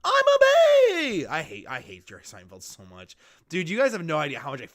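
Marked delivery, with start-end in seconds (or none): 0.0-1.3 high, loud squeaky bee line; high excited bee cartoon voice; Barry B. Benson voice. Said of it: "Barry B. Benson".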